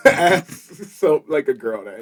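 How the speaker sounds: speaking with a lisp; slight lisp on the s sounds. Real, not acted. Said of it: "I'm sorry about the lisp".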